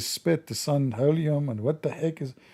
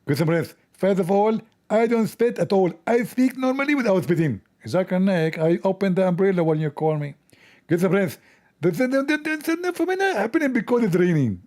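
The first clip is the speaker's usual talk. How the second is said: lightly put-on preacher voice, pitched up; mocking a lecturing preacher; mock Zakir Naik lecturing his audience; imitating Zakir Naik; 2 semitones higher than usual. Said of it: "Zakir Naik is the most known spitting machine".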